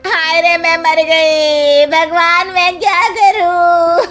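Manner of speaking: high, drawn-out lament at full volume; hammed-up slow, sobbing cry; loud wailing. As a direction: wail to God in despair. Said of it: "जोर-जोर से आवाज आती है".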